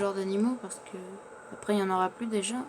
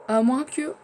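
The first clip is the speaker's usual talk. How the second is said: rising, louder "À moins que" as an idea hits; sudden idea; 5 semitones higher, 8 dB louder, slower than usual. Real, not acted. Alone in his game, hit by a sudden idea. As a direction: blurt "À moins que" up high and loud, struck by a thought. Gamer struck by a new idea.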